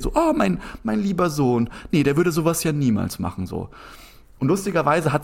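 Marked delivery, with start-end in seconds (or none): 0.1-3.5 lightly voiced, higher, doting mum; a hint of a mother in denial; mother defending her son, lightly mocking. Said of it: "wie in einer Parallelrealität".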